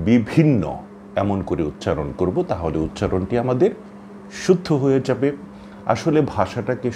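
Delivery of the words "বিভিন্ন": বিভিন্ন louder, ব then aspirated ভিন্ন; correct pronunciation. Shown as a demonstration. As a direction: stress বিভিন্ন with the ভ breathy. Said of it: "আমরা বলবো". (শুদ্ধ উচ্চারণ)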